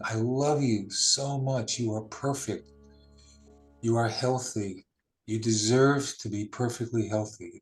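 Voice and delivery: slow, heartfelt I love you so much; with feeling. Shown as a demonstration. Meditation guide saying the loving affirmation with feeling, tender and slow. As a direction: pour real love into each word. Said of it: "Say it with feeling".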